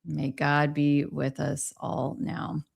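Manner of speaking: ordinary talk, nothing marked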